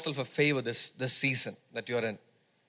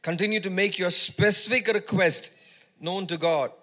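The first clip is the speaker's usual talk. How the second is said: emphatic preaching; 3 semitones higher, 3 dB louder than usual. Real, not acted. Preacher assuring the congregation of God's peace, emphatic and measured. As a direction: preach the verse with punched key words.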